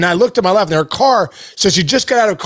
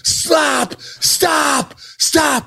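high, drawn-out mock shout; retold desperate call, pitched up; imitated yelling; 8 semitones higher, 3 dB quieter, much slower than usual. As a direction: act out hollering at traffic, held back in volume. Retold yelling at oncoming traffic.

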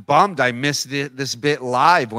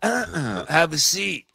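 a hint of a slow TV host; slow and grave, like a crime show host inviting a guest; Dateline host; 2 semitones higher, 3 dB quieter, much slower than usual. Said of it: "sit down like it's Dateline".

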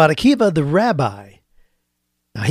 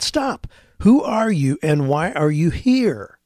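guard's challenge; 2 semitones higher, slower than usual. Acted. Guard challenges rabbi second time.

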